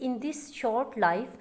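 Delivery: slow, measured poetry reading; a teacher reading verse aloud to the class; poem recitation. Shown as a demonstration. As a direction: recite each line slowly and deliberately. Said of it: "example ये है कि".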